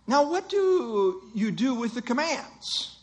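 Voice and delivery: lightly acted teacher's review question, slow; a hint of a pastor quizzing pupils, unhurried. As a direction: draw out the question to prompt the class. Acting a pastor quizzing his class.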